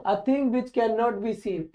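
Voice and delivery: each word spelled out very slowly; slow dictation. Shown as a demonstration. Teacher dictating a definition to students, very slow and deliberate. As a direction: read it slowly so students can write it down.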